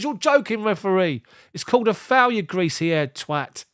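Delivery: high-pitched outraged player; mock indignant protest. Acting out player protesting to referee.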